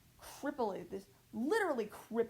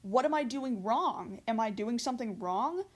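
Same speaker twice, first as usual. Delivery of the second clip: angry at self; 6 dB louder than usual. Retold or imitated. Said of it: "get angry at myself".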